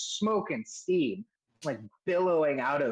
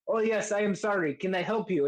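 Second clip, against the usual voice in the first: apologetic smith; 4 semitones higher than usual. Acted. Game master voices apologetic smith.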